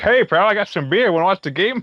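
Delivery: high-pitched, abrupt barging-in delivery. Retelling a movie scene where a character bursts in: imitating Norm. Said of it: "And then Norm kicks down the door".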